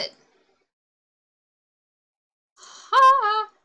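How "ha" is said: loud high "Ha"; triumphant shout. Real, not acted. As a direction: bark out a victory. Ende erreicht.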